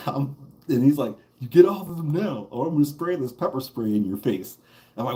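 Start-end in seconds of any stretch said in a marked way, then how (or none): 1.4-4.6 high, hard warning from an officer; cop threat. Retold or imitated. Cop warning him to stop or get pepper sprayed.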